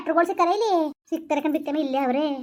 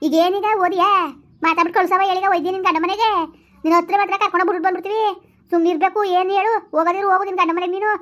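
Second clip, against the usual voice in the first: raised, high-pitched telling-off; scolding; 4 semitones higher, 4 dB louder than usual. Acted. Relative tells weeping young woman to go to her husband, scolding. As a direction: scold her briskly to stop the tears.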